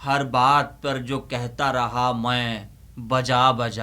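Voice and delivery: slow, weighty reading of the closing couplet; slow poem recitation. Acted. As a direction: savour each word of the last couplet.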